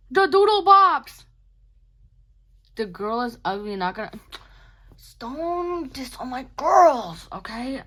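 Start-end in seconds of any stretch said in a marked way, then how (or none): 0.1-1.2 much higher and louder, squealed; squealing excitement. Real, not acted. Vlogger squealing about her Doodle Bops drawing, high and loud. 5.2-7.8 mock sassy defence. Mock defending her drawings.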